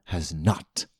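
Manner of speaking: slow, grave poetic toast fading to a whisper; dramatic recitation. Pretend. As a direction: raise a solemn toast, slowing down.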